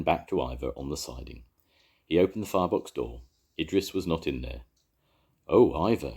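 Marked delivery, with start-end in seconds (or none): 5.5-6.1 shouted. A narrator's reading. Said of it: "shouted Jones".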